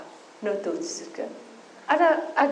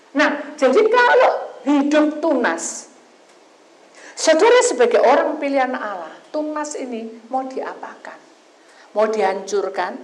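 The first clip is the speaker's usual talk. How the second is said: preaching; 5 semitones higher, 9 dB louder than usual. Acted. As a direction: lean in and exhort. Sermon application to the congregation.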